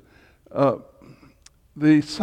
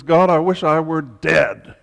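mild shout; 3 semitones higher, 6 dB louder than usual. Retold or imitated. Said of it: "He shouts at God".

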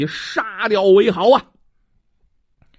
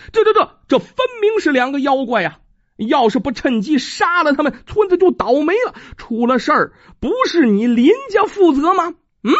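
indignant argument; 5 semitones higher than usual. Acted. Angry scholar argues back.

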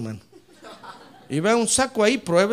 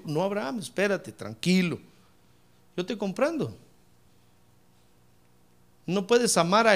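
calm reassuring God. Acted. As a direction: settle him down gently. God answering Abraham calmly.

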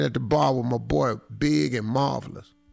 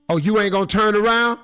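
mock ex girlfriend; 7 semitones higher, 6 dB louder, faster than usual. Ex confronting him at bar.

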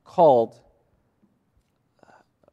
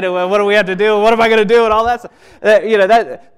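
higher, louder hammed-up fretting; mock panicked adult; 5 semitones higher, 9 dB louder, faster than usual. Pastor mocking his own fears of the window, loud hammed-up panic. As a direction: play up the worried grown-up in a panic.

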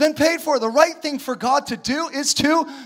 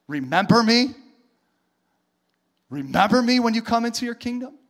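sceptical religious people. Acted. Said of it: "All the religious people are like".

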